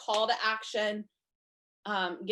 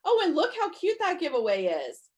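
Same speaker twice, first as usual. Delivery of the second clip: higher, louder delighted discovery; excited scroller; 7 semitones higher, 5 dB louder than usual. Pretend. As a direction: gush as if spotting something cute, higher. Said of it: "they're gonna go".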